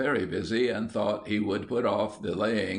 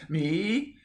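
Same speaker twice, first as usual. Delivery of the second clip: sharply higher, amazed echo; boy echoes his father in disbelief; astonished; 10 semitones higher than usual. A narrator's reading. Astonished squeak. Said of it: "in a voice of astonishment".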